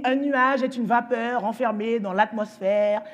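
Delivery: slow, measured recitation; imitated schoolboy definition, slowly spelled out; child reciting. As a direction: recite it like a little know-it-all.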